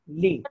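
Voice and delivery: "li" said with no T at the end; silent T. Shown as a demonstration. Teacher showing the T of lit is not spoken. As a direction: stop cleanly on the vowel of "li". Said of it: "T is silent".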